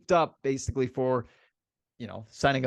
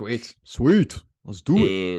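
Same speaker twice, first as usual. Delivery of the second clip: excited; 5 semitones lower, 6 dB louder, slower than usual. Real, not acted. Excited to start NBA talk.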